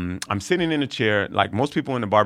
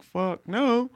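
emphatic refusal. Retold or imitated. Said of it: "He's like".

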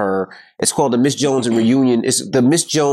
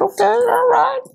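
much higher, squeaky stunned dad voice; mock surprised dad. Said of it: "I said".

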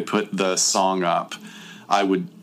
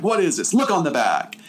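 mock kidnapper; 7 semitones higher than usual. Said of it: "He's like".

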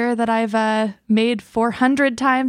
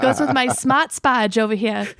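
lightly put-on Boston accent; slow Boston drawl, no r's; 2 semitones higher than usual. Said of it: "yell at each other in Boston accents".

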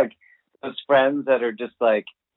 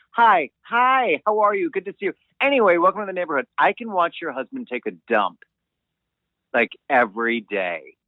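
fake-friendly neighbor greeting; 4 semitones higher than usual.

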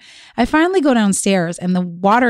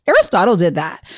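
imitated child's tattle, stated as simple fact; matter-of-fact; 3 semitones lower than usual. Mother imitating son who blames his brother right away, matter-of-fact. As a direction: report the culprit matter-of-factly, without fuss. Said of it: "matter of fact".

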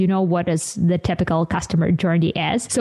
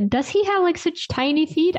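surprised; 10 semitones higher than usual. Retold or imitated. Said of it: "I was like".

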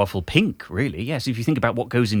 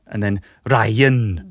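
put-on Welsh accent; 3 semitones lower, 3 dB louder, much slower than usual. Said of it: "there's Welsh".

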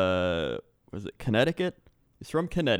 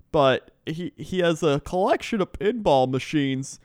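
higher, chatty put-on Canadian accent; hammed-up Canadian accent; 6 semitones higher, 4 dB louder than usual. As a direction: play a rambling driver with a Canadian accent. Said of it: "he's more talking like this".

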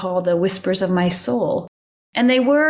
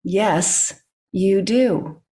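calm voice; much slower than usual. Retold or imitated. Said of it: "the calm voice".

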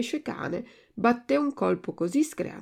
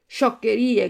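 loud, dismissive exclamation; shouted retort; 3 semitones higher, 7 dB louder than usual. A narrator's reading. Puppet scoffs at the tuna's philosophy, crying out. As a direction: throw it out as a brief, moderate cry. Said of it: "gridò Pinocchio".

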